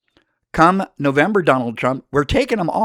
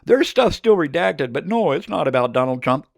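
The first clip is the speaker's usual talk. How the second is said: mocking official denial; 4 semitones higher than usual. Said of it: "the Department of Justice saying".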